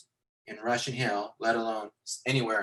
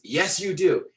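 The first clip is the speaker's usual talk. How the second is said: mildly angry, higher-pitched retort; acted mad retort; 4 semitones higher, 4 dB louder, slower than usual. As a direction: insist as the annoyed big guy. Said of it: "he gets all mad".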